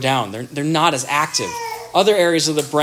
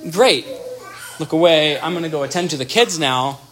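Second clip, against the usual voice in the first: dismissive brush-off. Retold or imitated. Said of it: "that's demolishing".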